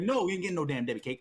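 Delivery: lightly mimicked fast refusal; Brisbane. Imitating friend refusing to share cake, light quick imitation. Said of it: "I love the way Brisbane talked".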